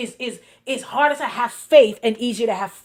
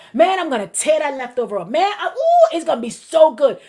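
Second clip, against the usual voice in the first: laughing hype; 3 semitones higher, 4 dB louder than usual. Pretend. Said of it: "Right, Prophet Joyce".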